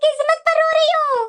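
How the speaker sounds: mildly tearful, indignant lament; tearful complaint. Acted. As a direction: complain to your husband through put-on tears. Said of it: "तुम क्यों रो रही है".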